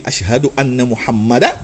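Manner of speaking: Muhammada with the final da tied on, Rasulullah kept apart; correct pronunciation. Shown as a demonstration. Teacher showing students the correct call to prayer. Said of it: "il doit dire".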